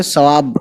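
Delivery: सवाब with a clipped final बे, no vowel after it; model pronunciation. Shown as a demonstration. Urdu teacher to students, clean final बे in सवाब. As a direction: end सवाब right on the bare बे sound. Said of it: "ये बे की सिर्फ आवाज़ निकालेंगे".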